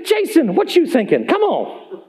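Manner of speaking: lightly voiced exasperated coach; mock-scold a player who messed up. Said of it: "He coaches me".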